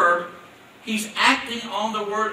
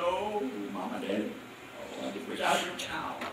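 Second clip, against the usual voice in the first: put-on soft, much quieter pleading child; whining child; 3 semitones lower, 11 dB quieter than usual. Child begging mama and daddy to be theirs, mock whine. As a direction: mimic a child begging its parents. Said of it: "came up to you and said".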